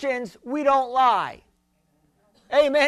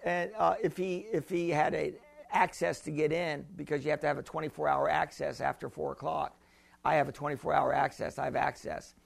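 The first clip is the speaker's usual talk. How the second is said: 1 retold lady; 8 semitones lower, 11 dB quieter than usual. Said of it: "And she said".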